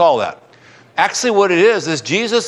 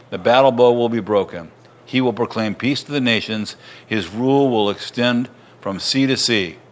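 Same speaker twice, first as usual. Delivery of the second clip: lower-pitched, even reading of prophecy; scripture reading; 4 semitones lower than usual. A narrator's reading. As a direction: read on through the passage in a low, even register.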